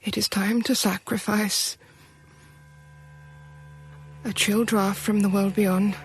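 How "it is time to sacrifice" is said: whisper. Acted. Wife whispers resolve.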